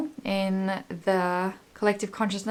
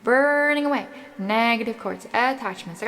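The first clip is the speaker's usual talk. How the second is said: right in your ear; faster than usual. Acted. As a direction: speak close and gently into the mic. Leads an energy healing meditation.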